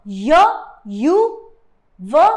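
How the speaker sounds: teacher isolating the sounds; sound demo. Shown as a demonstration. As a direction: sound out "य", "यू", "व" separately. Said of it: "please ध्यान दीजिए".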